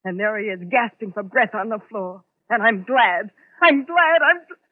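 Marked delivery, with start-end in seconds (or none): 2.5-4.6 glad, voice climbing and breaking; rising hysteria. Acted. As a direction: gloat until it cracks. Gloating then breaking.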